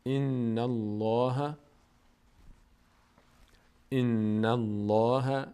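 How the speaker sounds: slow "ان الله" with a full, dark L; heavy L. Shown as a demonstration. Teacher shows the L after fatha, heavy L. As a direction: draw out "الله", L thick and heavy.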